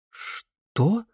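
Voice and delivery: high, startled; taken aback. A narrator's reading. Camilla blurts out in shock. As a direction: Camilla stunned by the news. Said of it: "опешила Камилла".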